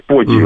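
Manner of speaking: «подвиг» with softened dz; soft Belarusian dz. Shown as a demonstration. Linguist illustrates soft sounds, «подвиг» with dz. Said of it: "мягкие звуки".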